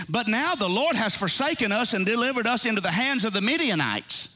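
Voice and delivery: animated pulpit delivery with swinging pitch; rolling preacher's cadence; preaching. Real, not acted. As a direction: preach the scripture out to the congregation. Preaching, voicing scripture and God.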